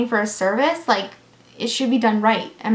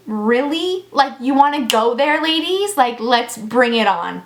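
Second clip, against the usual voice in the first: sassy challenge. Retold or imitated. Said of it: "I have my sass on".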